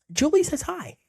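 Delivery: squeaky put-on voice for a weirdo; weird third-person voice. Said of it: "the person you're talking to goes".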